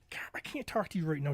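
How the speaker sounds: hushed whisper into the phone. Retold or imitated. Answering his wife's call at work in a hushed whisper. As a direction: keep it secret from the boss.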